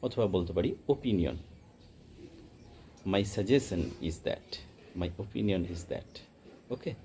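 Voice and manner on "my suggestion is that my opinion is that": very slow, carefully spaced example sentence; slow teaching read. Shown as a demonstration. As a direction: lay each word out slowly for students. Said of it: "এর মানে হচ্ছে suggestion".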